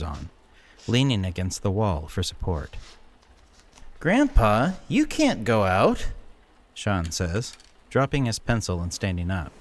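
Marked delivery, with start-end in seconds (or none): 4.0-6.1 louder, higher urgent protest; alarmed call. A narrator's reading. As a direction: stop him from going out. Grandson calls out alarmed.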